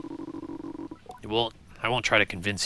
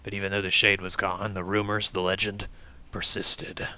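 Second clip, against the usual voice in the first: snake voice; 2 semitones lower than usual. Acted. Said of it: "I assumed it was Snake you were doing".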